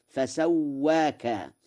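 فسواك said slowly, the vowel tilted toward e; drawn-out فسواك; Warsh reading. Shown as a demonstration. Teacher showing Warsh's فسواك. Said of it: "الفتح والتقليل".

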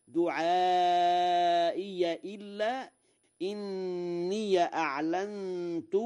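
high, slow recitation, دعائي as du'aa-iya; fatha on ya. Shown as a demonstration. Teacher gives examples, دعائي and إني ending in -iya. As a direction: open ya ending on دعائي and إني, long madd. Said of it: "بفتح الياء وصلا".

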